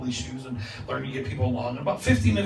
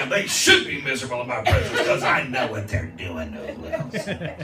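mock self-righteous; 5 dB louder than usual. Mocking his former self, laughing.

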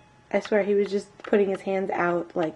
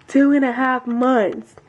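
mock amazement; 3 semitones higher, 5 dB louder, slower than usual. Real, not acted.

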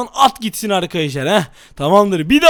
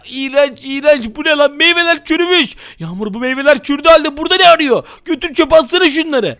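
mock disgust and anger; 3 semitones higher than usual. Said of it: "sinirli taklidine geçelim".

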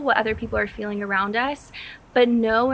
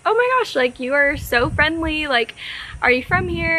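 retold gasp of surprise, higher; taken aback; 4 semitones higher than usual. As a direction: replay his startled delight, up high. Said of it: "so taken aback".

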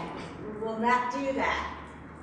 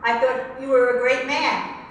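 rising indignation, a little louder; outraged; 3 semitones higher, 5 dB louder than usual. Real, not acted. Client venting at absent father, outraged. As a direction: let held-in hurt come out as outrage. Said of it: "Get yourself get outraged".

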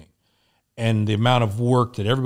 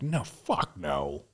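low, slow and hushed; drawn-out low denial under the breath; quietly refuse, dropping the pitch and stretching it; dismissive refusal; 6 semitones lower, 9 dB quieter, much slower than usual. Retold or imitated. Refuses idea of having stroke.

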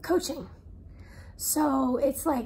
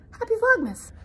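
excited greeting; 8 semitones higher, 7 dB louder than usual. Real, not acted. Cheerful festive sign-off greeting.

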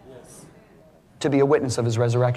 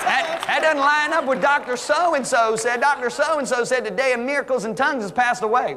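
doubtful; 9 semitones higher than usual. Retold or imitated. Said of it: "Some Christians go".

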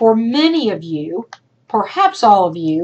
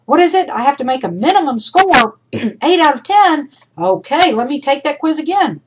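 higher-pitched, louder keen student; imagined student; 5 semitones higher, 4 dB louder than usual. Acted. Teacher voicing student asking about quiz grades, eager act. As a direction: lightly play a student eager to check. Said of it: "you look at that syllabus and you say".

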